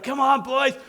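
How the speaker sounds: rally the team with a breaking pubescent squeal; mock on-field yell as the voice cracks; pumping up the boys. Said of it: "I'd pump the boys up".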